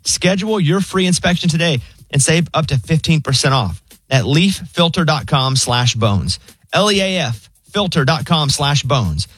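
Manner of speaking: steady radio ad read, the web address slowed and spelled out; live host ad read. Acted. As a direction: sell it to the listeners. Host reading a sponsor ad.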